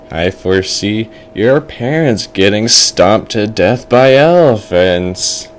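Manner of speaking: drawn-out doom prophecy; ominous fortune teller. Acted. Fortune teller predicts parents' death, slowly ominous. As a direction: stretch the final words like a seer. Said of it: "And the fortune teller is like".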